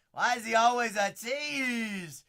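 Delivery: loud, high, slow yell; frustrated shout. Real, not acted. Card breaker yells at a teasing pull, loud and high. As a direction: belt it out in mock outrage.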